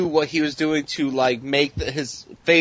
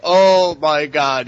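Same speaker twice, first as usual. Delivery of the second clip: drawn-out exclamation; 6 dB louder, much slower than usual. Retold or imitated. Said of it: "he's like".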